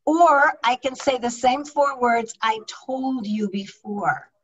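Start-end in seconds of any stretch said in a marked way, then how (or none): 2.4-4.3 a little edge, softer and slower; quietly pointed, with an edge; edgy. Shown as a demonstration. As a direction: let some irritation creep into I told you before. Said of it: "there's a little bit of edge in there".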